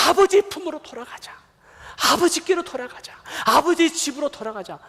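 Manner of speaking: high, urgent acted appeal; impassioned brotherly plea. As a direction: plead with a lost brother to come home. Acted brother pleading with lost brother. (동생에게 높은 목소리로 간절히 호소하는 연기)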